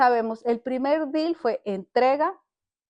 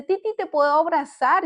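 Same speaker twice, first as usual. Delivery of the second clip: grandson asking; 4 semitones higher than usual. Retold or imitated. Voices grandson asking for hug.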